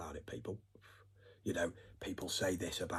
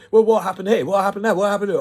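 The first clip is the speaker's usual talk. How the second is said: loud, much higher, nagging whine; whining; 13 semitones higher, 19 dB louder than usual. Retold or imitated. Mocking the whining questioners with a shrill, loud whine. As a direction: whine like a spoiled brat demanding answers. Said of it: "really, really whining".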